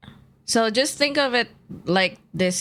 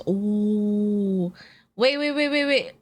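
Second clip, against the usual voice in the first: sudden realization; 2 semitones higher, slower than usual. Real, not acted. Suddenly remembers the plan.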